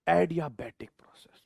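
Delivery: whispered term; teasing whisper of the next topic. Shown as a demonstration. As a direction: say it in a hush. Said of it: "क्या बोलूंगा मैं?".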